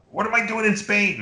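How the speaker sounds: put-on high, puzzled old man; confused old father. Confused father calling his son, high and puzzled. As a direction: ask it lost and bewildered. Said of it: "he would call me up".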